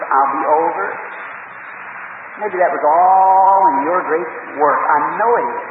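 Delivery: preacher's heartfelt benediction, rising at the end; earnest closing prayer. Acted. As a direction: pray over the people with full sincerity. Closing prayer over congregation.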